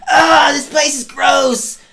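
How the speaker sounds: loud, slow disgusted groan. Real, not acted. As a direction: recoil in disgust. Disgusted at game scene.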